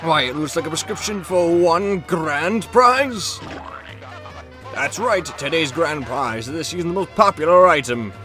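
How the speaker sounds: hyped TV announcer voice; booming prize announcer. Acted. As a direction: sell the prize like a showman. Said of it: "prize announcer read".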